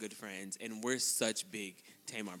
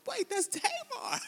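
retold surprise; 5 dB louder, slower than usual. Realizing she mistook Lolo.

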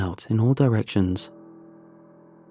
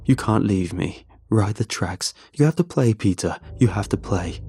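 menacing demand. Acted. Creature demanding child stay.

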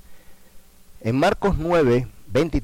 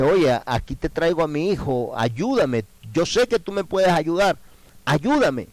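1 anguished plea; 6 semitones higher than usual. Acted. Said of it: "ya angustiado, preocupado".

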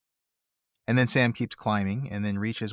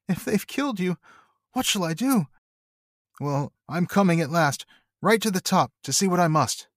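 higher, strained, anxious resolve; mild distress; 9 semitones higher than usual. Acted. Sam vowing to climb the tower, anxious and higher. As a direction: push on through fear for a friend. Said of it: "half sobbing".

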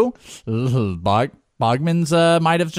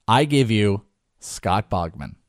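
show host intro; 3 semitones higher than usual. Shown as a demonstration. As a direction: open the show like a hyped host. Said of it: "This is how I was gonna start the show".

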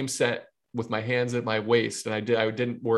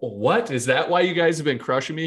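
quick, higher incredulous question; mild mock disbelief, hurried along; retold surprise; 4 semitones higher than usual. Pitcher reacting to coach's revelation, mildly incredulous.

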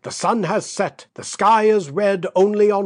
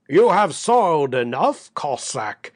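bass growl. Acted. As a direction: growl it from behind him like a menacing stranger. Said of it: "growled a bass voice behind him".

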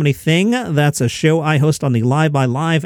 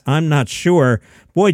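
normal talking voice

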